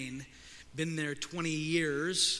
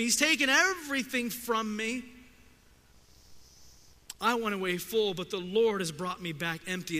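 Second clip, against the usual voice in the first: raised, pained lament, higher and louder; bitter outcry of loss, pitched up and loud; anguished cry; 7 semitones higher, 6 dB louder than usual. Retold or imitated. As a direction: cry it out to the women like a grieving widow. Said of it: "the same cry as Job".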